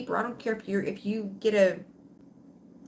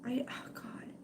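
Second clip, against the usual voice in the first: on the verge of tears; 4 semitones higher, 11 dB quieter than usual. Real, not acted. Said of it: "I, I might cry".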